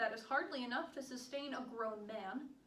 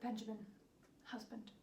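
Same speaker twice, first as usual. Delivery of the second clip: tender farewell plea; 8 dB quieter than usual. Acted. Soft farewell plea to imprisoned husband.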